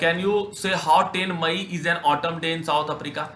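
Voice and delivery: reading the English passage slowly and deliberately; measured classroom read-aloud; slow text reading. Shown as a demonstration. Reads question aloud.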